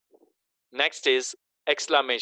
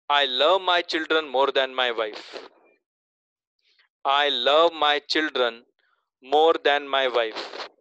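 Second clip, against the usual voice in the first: slow reading; 3 dB louder, much slower than usual. Shown as a demonstration. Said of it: "तीसरा sentence बोलता हूं".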